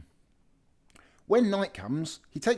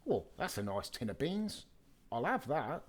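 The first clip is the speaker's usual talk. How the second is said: hushed burglar; 8 dB quieter than usual. Acted. Burglar voice in the dark.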